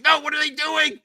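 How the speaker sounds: high-pitched pleading protest; wife begging the show to spare Paz Vizsla, high and pleading; mock upset wife. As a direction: whine it like a fan losing her favorite. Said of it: "She's like".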